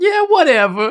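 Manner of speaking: put-on loud, high-pitched small kid voice, belted out. Acting out a teen tutoring scene, answering the tutor: child Jesse voice. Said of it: "your voice for, like, a child Jesse".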